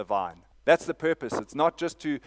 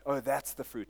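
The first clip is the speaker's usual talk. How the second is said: mock voice; 3 semitones higher, 4 dB quieter than usual. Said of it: "No, it's not".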